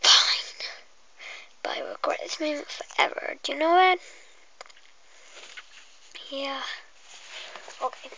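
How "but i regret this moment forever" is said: soft unvoiced whisper to the viewer. Whispering to the viewer before the pretend hairdresser game. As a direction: breathe every word like an ASMR intro.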